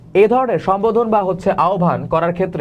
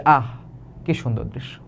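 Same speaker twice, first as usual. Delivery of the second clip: much softer, lower sigh of wonder; awed; 5 semitones lower, 6 dB quieter than usual. Shown as a demonstration. Teacher recalls the Bandarban view, soft and awed. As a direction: breathe it out at a mountain view. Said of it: "আমার এরকমই লাগছিল".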